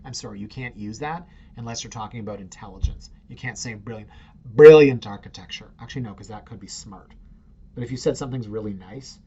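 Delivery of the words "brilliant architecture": mock British. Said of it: "If you're not British".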